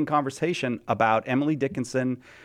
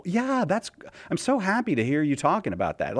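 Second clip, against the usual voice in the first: mock-bubbly AI assistant, pitched up; cheerful chatbot; 5 semitones higher than usual. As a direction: gush like an overly eager chatbot. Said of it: "always super cheerful".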